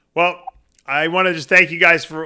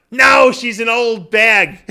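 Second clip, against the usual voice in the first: slow, loud mock shout of a grumpy old father; father's blunt retort; 5 semitones higher, 5 dB louder, much slower than usual. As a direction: bark it out slowly like a cranky dying dad.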